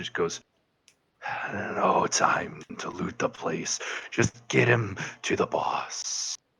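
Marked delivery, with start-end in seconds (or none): 1.5-6.4 very raspy, slow, breathy whispered bird-creature voice. Voicing one of the two bird people answering the question, very scratchy voice. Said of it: "there's one that has a very scratchy voice".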